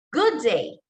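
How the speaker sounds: GOOD DAY with pitch up then sliding down; slide intonation. Shown as a demonstration. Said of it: "the way I pronounce it".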